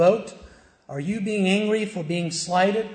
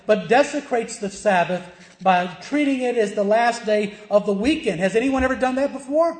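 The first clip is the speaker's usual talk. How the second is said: emphatic pulpit preaching, key words punched; forceful preaching; 3 semitones higher, 3 dB louder than usual. Real, not acted. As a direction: preach it with righteous urgency.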